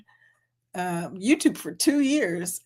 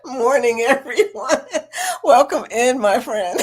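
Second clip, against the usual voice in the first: laughing greeting; 3 semitones higher, 3 dB louder than usual. Real, not acted. Greeting viewers while laughing.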